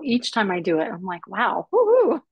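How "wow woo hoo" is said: high, loud, giddy relief; elated whoop. Retold or imitated. Survivor on telling her story, giddy celebration. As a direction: let out a little celebratory whoop.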